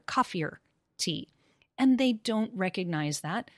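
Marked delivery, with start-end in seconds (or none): 0.0-0.6 "coffeeer" said as one word, "or" melted into "coffee"; linked vowels. Shown as a demonstration. Teacher demoing "coffee or" linked into one word. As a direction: glide "coffeeer" straight through. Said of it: "You link that together".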